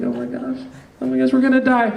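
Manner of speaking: half-joking dread of dying; panicked. Retold or imitated. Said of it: "And I'm like".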